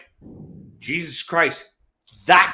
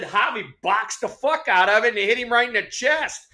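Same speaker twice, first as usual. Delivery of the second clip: high-pitched retold protest; acted-out complaint to an umpire; animated protest; 7 semitones higher than usual. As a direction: argue it higher, mock-indignant. Acting out his protest to umpire.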